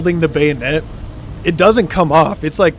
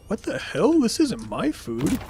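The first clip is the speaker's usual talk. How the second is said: lightly voiced drunk, slow and softer; a hint of a befuddled drunk finding the wrong fridge; confused drunk intruder; 5 semitones higher, 6 dB quieter, slower than usual.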